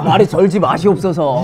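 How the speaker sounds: put-on loud old royal court voice; archaic court speech. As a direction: scold like a Joseon courtier. Mock scolding in archaic court speech.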